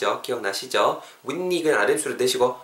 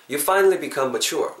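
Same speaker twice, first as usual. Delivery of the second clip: very slow, careful English; slow model sentence; much slower than usual. Shown as a demonstration. Teacher sums up with the slow model sentence. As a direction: read slowly word by word. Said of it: "합치면은요".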